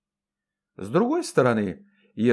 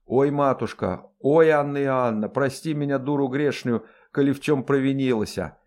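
mild lamenting; 2 semitones higher than usual. Acted. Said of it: "причитала карлица".

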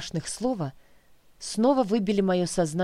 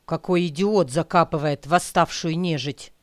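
angry man voice; 4 dB louder than usual. Acted. Stranger curses at the grave.

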